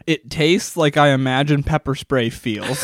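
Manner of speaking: slow, giggling through the words; laughing while talking. Real, not acted. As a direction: laugh through it, mouth on fire. Laughing through spicy wing.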